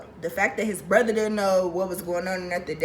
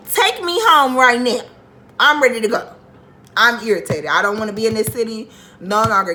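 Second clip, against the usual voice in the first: angry shouting; 8 dB louder than usual. Retold or imitated. Screaming match on the phone.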